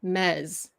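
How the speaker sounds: mez with an open "eh" and final z; drawn-out demonstration of mez; open è syllable. Shown as a demonstration. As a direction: say mez slowly, rhyming with "fez". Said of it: "it is pronounced mez".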